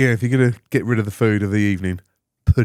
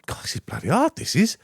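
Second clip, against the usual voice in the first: high, softer complaint of tiring out; re-enacted weary strain, pitched up; mildly knackered; 11 semitones higher, 4 dB quieter than usual. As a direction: complain as if flagging mid-jump. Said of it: "I was getting a bit knackered".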